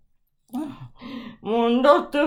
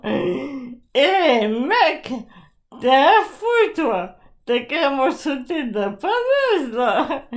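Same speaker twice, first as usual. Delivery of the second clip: mock scolding. Mock scolding of the ambulance man.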